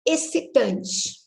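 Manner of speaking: excitante spoken slowly, syllable by syllable; slow syllable demo. Shown as a demonstration. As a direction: stretch out excitante for the class.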